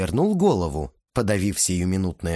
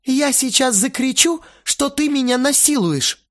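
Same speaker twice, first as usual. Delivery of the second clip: hissed threat; 14 semitones higher, 4 dB louder than usual. A narrator's reading. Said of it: "прошипела она".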